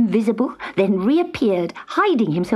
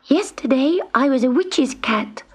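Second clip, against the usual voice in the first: high, airy thinking-aloud voice; lifted, whispery kitten pondering; thoughtful kitten; 6 semitones higher than usual. A narrator's reading. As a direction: muse to yourself as a little cat. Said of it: "thought Gobelino".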